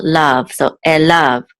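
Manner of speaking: "elav" slowly, leaning on "lav"; stress on last syllable. Shown as a demonstration. Teacher showing where the accent falls, final stress. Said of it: "accent's on the last syllable".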